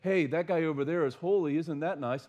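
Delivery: breezy, shrugging mock praise, as if it were no big deal; casual offhand remark. Preacher mocks a casual angel, offhand and breezy. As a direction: toss it off lightly like idle chatter. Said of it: "they're not just merely saying".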